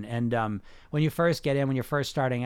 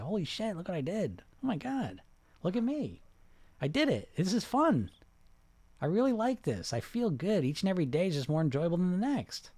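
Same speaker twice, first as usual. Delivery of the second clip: imagined delight; 4 semitones higher than usual. Pretend. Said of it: "you look back and say".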